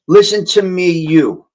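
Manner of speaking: loud, mouth right on the mic; close to the mic. Shown as a demonstration. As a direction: speak right into the microphone. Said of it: "Tell me if you hear the difference as I move the microphone".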